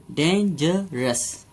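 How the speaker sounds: "डेंजरस" बहुत धीरे: "डेन… जर… रस"; "डेंजरस" के तीनों सिलेबल अलग-अलग; तीन हिस्सों में. Shown as a demonstration. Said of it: "इसे हमने तीन हिस्सों में बोला". (शिक्षक की तरह "डेंजरस" तोड़कर बोलें)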